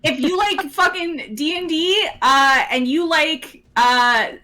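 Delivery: high, sugary uwu voice; cutesy baby talk. Acted. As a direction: coo it like an uwu streamer.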